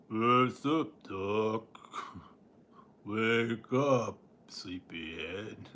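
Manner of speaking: dragging slowed-down cartoon voice, sinister; a dying toy turned demonic; slow menacing demon Bugs Bunny. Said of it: "Real slow and real menacing sounding".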